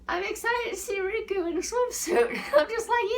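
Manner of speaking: high, laughing through the words; giddy fangirl glee; giggling excitement; giggly. Real, not acted.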